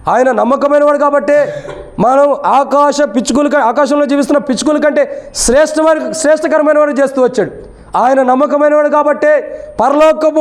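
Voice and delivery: high-pitched, insistent sermon delivery; preaching. Real, not acted.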